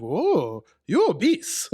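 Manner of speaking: high-pitched imitation of a thick Asian accent. Podcaster imitating his blunt doctor, high thick Asian accent. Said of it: "I'm gonna do the accent".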